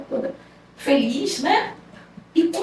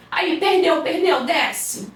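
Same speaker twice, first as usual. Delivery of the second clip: robber's line; 4 semitones higher, much slower than usual. Retold or imitated. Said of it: "Não, falou assim".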